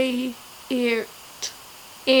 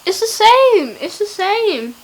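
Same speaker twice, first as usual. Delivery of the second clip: high, loud squeal of discovery; excited; 9 semitones higher, 6 dB louder than usual. Real, not acted. Finding hair sounds identical backwards, excited. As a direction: squeal it in amazed delight, pitched way up. Excited the reversed word matches.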